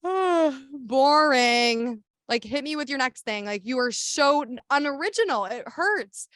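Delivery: high, mocking bored sass; sassy comeback. Activist mocking a commenter, sassy and bored. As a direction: brush the troll off with sass. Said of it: "I'll be like".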